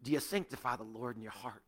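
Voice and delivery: low, soft imitated Texas accent; a hint of Texas accent; Vernon McGee. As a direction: lightly imitate a Texan preacher's accent. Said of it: "He had that Texas accent".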